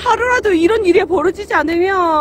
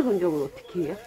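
muffled behind cloth mask; speaking with covered mouth; through a face mask; 12 semitones lower, 4 dB quieter than usual. Real, not acted. Seen 4: Checked cloth mask covers her mouth and nose throughout.

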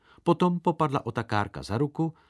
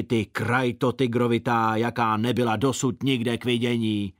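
rapid cursing; 2 semitones higher, 4 dB louder than usual. Acted. Čenda cursing the circus boss from afar, loud insults. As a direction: hurl mock insults like a whip. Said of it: "To nadával velice rychle".

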